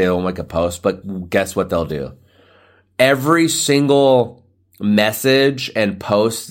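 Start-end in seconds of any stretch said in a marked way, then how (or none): 3.0-6.5 mocking. Mocking show-offs' reposts.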